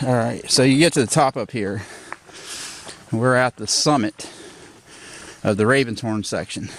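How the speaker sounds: out of breath from the climb; winded, breathing between words; shallow breathing. Real, not acted. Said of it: "Sorry for the breathing".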